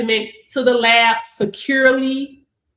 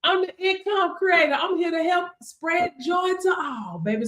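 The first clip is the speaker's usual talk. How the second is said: ordinary talk, nothing marked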